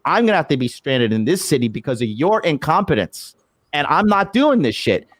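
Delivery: mildly heated rant, pitch jumping at start and end; retold angry yelling. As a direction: indignantly retell your own angry outburst. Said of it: "I was angry. I was yelling".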